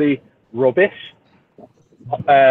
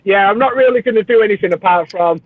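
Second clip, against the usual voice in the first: teasing, higher-pitched imitation of a friend; amused mimicry; 4 semitones higher than usual. Teasing a friend about modifying the tank, amused mimicry. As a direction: mimic their promises through held-back laughter. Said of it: "because you're like".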